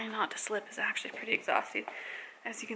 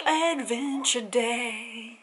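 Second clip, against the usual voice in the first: drawn-out excited; much slower than usual. Real, not acted. Echo with gasp before.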